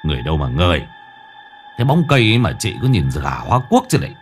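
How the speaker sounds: gruff annoyed retort, quick on the second line; mild gruff snap; snapping. A narrator's reading. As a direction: brush her off irritably. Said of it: "ông gắt".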